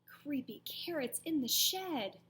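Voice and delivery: put-on scared child calling for help; frightened cry. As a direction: blurt it out scared. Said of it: "Jasper screamed".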